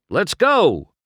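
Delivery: high, loud push to move; urging. A narrator's reading. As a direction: hurry him along. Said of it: "Harv urged".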